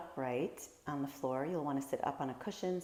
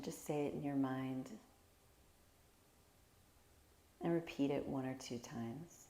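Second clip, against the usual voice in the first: calm, unhurried meditation guide with long pauses; guided meditation. Real, not acted. Teacher guiding listeners through a body scan, calm guided meditation. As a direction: gently lead them through each breath, leaving space.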